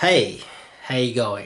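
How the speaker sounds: big, loud, bold, outgoing voice. Showing how to open an approach: loud voice. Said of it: "loud voice".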